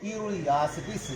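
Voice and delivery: syllable by syllable, very slow; slow Japanese demo. Shown as a demonstration. Teacher to students, the Japanese sentence very slowly. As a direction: lay out each Japanese word slowly. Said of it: "अब हम इसको Japanese में करते हैं".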